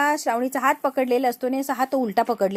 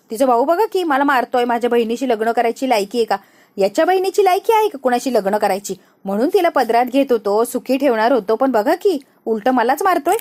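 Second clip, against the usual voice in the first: loud aggrieved protest to the crowd; indignant complaint; 3 dB louder than usual. Acted. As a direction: play the wronged man to onlookers. Vikram complains loudly to crowd. (मोठ्याने तक्रार करत)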